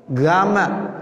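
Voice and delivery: Egyptian "Gama", hard g for qaf; Egyptian dialect. Shown as a demonstration. Teacher imitating Egyptians, Egyptian-dialect "Gama". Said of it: "Itu dialek orang Mesir".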